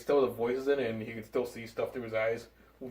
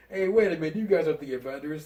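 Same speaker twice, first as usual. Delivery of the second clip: lightly acted, higher call-out; Spider-Man quote; 4 semitones higher, 5 dB louder than usual. Quoting Spider-Man to masked robbers, lightly acted call-out. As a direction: call out in mock surprise, loud at the start.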